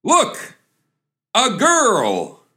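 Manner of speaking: very high, thrilled cry; ecstatic exclamation. Acted. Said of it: "he exclaims".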